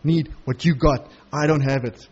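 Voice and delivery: lightly voiced jailer, low and pleading; a hint of the broken jailer begging; humbled jailer. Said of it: "He's like".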